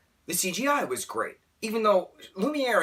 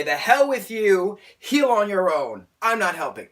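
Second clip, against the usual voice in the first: indignantly wash your hands of it; mock callous brush-off; dismissive acted quote; 5 semitones higher, 6 dB louder than usual. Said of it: "and say".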